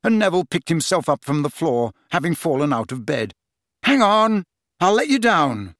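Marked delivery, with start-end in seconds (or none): 3.8-5.8 raised urgent voice; urgent calling. Acted. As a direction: call up to him in a rush. Panicked Harry calling up.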